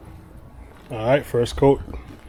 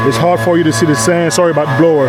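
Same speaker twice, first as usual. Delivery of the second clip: loud, raised voice over noise; yelling over leaf blower; 4 semitones higher, 6 dB louder than usual. Real, not acted. Sorry about the blower.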